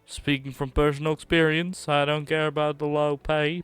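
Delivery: a hint of a put-on accent, earnest warning; voicing the NPC. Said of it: "I don't know why I'm voicing the N P C".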